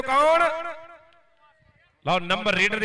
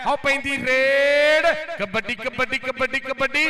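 drawn-out raid call; slower than usual. Real, not acted. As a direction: stretch the raid call, then chant. Raid call and kabaddi chant.

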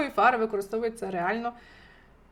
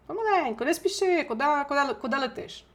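a hint of a mother warning a child, higher; scolding a child; 4 semitones higher, faster than usual. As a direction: call after a running kid.

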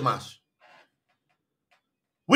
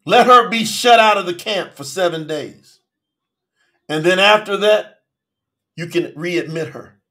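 God answering; 3 semitones lower than usual. Acted. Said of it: "And Yahuwah said to Masha".

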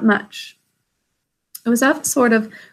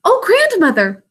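higher, louder burst of surprise; exclaiming; 9 semitones higher, 5 dB louder than usual. A narrator's reading. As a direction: cry out her grandmother's name in dismay. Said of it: "exclaimed Irene".

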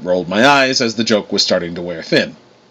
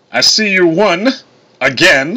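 grudging rival; 8 semitones higher, 3 dB louder, slower than usual. A narrator's reading. Thor spars with rival brother.

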